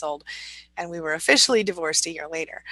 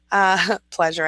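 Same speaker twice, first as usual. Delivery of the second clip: laughing at herself; 4 dB louder, slower than usual. Real, not acted. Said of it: "I don't really talk like that".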